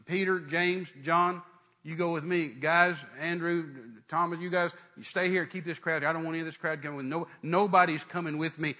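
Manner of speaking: firm orders, one group after another; mildly stern commanding voice. Acted. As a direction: take charge, brisk and no-nonsense. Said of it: "he gets real stern".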